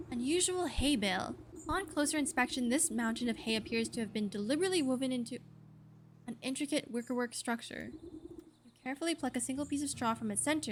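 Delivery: measured storytelling read of game text; game narration. A narrator's reading. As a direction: read it like a game master setting a scene.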